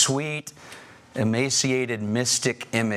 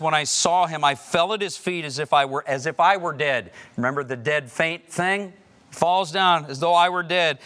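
louder and higher, gripped by the vision; awed retelling; 6 semitones higher, 5 dB louder than usual. Acted. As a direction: preach John's awe out loud. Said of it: "John just says".

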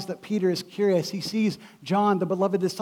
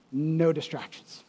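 ordinary talk

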